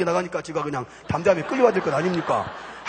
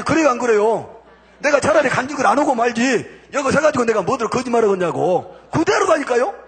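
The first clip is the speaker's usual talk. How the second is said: raised voice, pitched up in protest; vehement, high-pitched protestation of honesty; emphatic insistence; 4 semitones higher than usual. Real, not acted. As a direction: swear to the crowd it is true. Insists to congregation he isn't lying.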